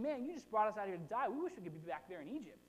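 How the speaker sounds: lightly voiced whine; a hint of grumbling; complaining people. Preacher voicing the people blaming Moses, mild whine. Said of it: "they're saying".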